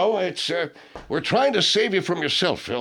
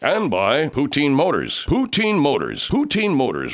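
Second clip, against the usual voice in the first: slow emphatic ad read; slower than usual. Acted. Car ad intro.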